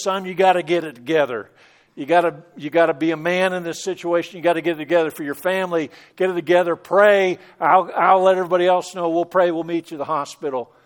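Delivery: a father telling his son to hold it together; urgent father. Retold or imitated. Dad on the phone urging his panicking son, firm and fast.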